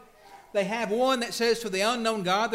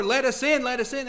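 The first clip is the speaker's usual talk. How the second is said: begging plea; 5 semitones higher, 4 dB louder than usual. Acted. Virgins begging at the door.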